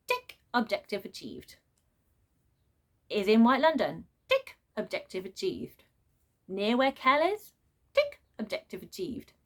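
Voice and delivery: flat, falling "tick, objective achieved"; deadpan checklist. Real, not acted. Vlogger mocking the predictable plot, in a flat checklist voice. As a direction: tick the boxes like a bored robot.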